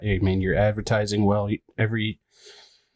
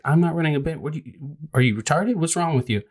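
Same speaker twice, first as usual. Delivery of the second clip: higher-pitched, exasperated comeback; retold exasperation; 5 semitones higher than usual. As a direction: act out an indignant homeowner fed up. Retold heated HOA argument.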